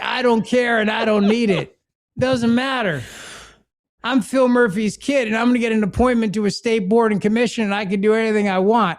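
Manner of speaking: lightly voiced spoiled rich kid, smug and careless; entitled rich kid. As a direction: play the spoiled governor's son who doesn't care. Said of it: "'Cause he's like".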